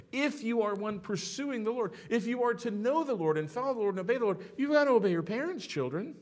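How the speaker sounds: rising preacher's urgency; building preaching. Real, not acted. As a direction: push the command home.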